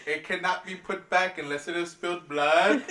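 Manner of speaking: laughing through a movie quote; quoting through laughter. Retold or imitated. Fan quoting a movie threat while laughing. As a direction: giggle through the threat line. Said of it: "One of my favorite lines from him".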